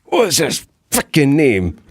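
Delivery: slow, hammed-up New Yorker; "What was his frickin' name?" drawn out Brooklyn style; New York Italian accent. Shown as a demonstration. New Yorker accent demo for the host. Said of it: "do this impression".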